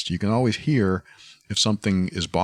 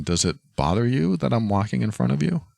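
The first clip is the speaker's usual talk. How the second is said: innocent question; 5 semitones higher than usual. Shown as a demonstration. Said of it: "as innocent and even naive".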